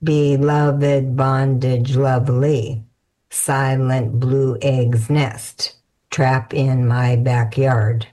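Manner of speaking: slow haiku recital. Acted. Rereading haiku slowly.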